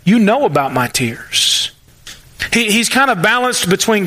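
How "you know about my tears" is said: lower, calmer, trusting tone; quiet trust. Retold or imitated. Psalmist praying to God, lower and trusting. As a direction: settle into quiet confidence in God. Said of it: "you can also hear the trust in his voice".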